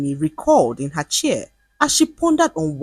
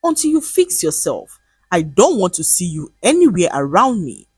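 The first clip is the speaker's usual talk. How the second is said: warning. Acted. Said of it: "Mide warned her".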